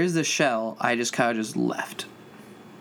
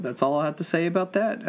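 lightly voiced Forrest Gump line, barely changed; a hint of Forrest Gump, slightly higher; Forrest Gump quote; 4 semitones higher than usual. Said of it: "I just got a quote Forrest Gump".

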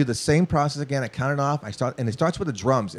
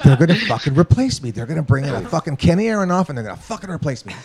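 louder, half-laughing dread, speeding up; laughing panic; 4 semitones higher, 5 dB louder, faster than usual. Retold or imitated. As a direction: laugh through the fear of getting fired. Panicked thought of being replaced.

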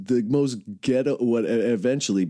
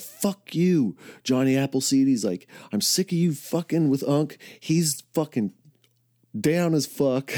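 retold defense; 4 semitones higher than usual. Retold friend defending him.

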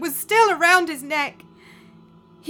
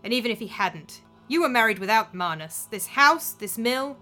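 cold contempt; 4 dB louder than usual. Acted. Daughter dismisses stepmother, claiming estate.

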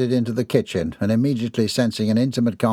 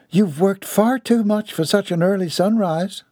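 higher, scoffing Southern lady; indignant lady; 10 semitones higher than usual. Acted. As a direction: dismiss the claim with ladylike scorn. Voices lady in story.

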